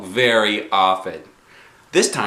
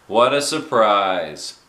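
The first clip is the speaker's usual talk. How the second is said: drawn-out, knowing "well, well"; a hint of a dry principal; slow teasing grown-up; principal's mock surprise; 2 semitones higher, 4 dB louder, much slower than usual. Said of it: "he said".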